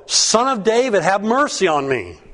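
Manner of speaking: high pleading call, pitched well up; cried out. A narrator's reading. Blind man calling to Jesus by the road, high pleading cry. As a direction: call out to Jesus, begging for mercy. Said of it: "he cried out all the more".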